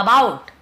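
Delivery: short uh, then punch the bout of "about"; correct schwa pronunciation. Shown as a demonstration. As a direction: model "about" with a short first vowel. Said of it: "ए about नहीं बोल रहा मैं".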